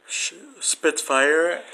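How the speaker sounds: drawn-out, rising in doubt; slowly, high, can't quite believe it; unsure, fishing for the answer; incredulous question. Real, not acted. Unsure, picturing fire-breathing dragon.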